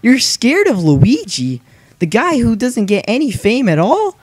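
high, loud mocking questions; taunting. Real, not acted. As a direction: goad the enemy with rising, jeering pitch. Taunts the game boss.

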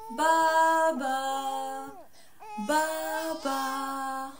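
calling out. Pretend. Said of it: "هيا ننادي سويا".

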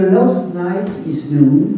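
slow, careful French-accented English on Love Night is Noon. Real, not acted. French reader stumbling over the English title, slow French accent. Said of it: "mon accent est catastrophique".

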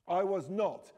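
half-hearted shouted denial; mild yell. Acted. Aaron protesting he wasn't scared, mild yell. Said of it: "practically screaming at me now".

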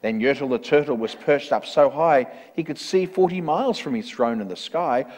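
measured, rhythmic storybook reading; story narration. A narrator's reading. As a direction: read it out like a rhyming picture book. Reads a rhyming story.

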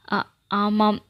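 catching on the first sound in fear; பயத்தில் திக்கித் திணறும் குரல்; frightened stammer. A narrator's reading. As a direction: stammer out a scared yes. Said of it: "வார்த்தைகளுக்கு தந்தியடித்தன".

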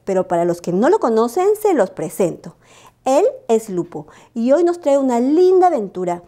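put-on high, sing-song host greeting kids; bright squeaky sing-song welcome. Storyteller welcomes children.

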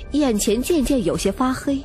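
usual speaking voice

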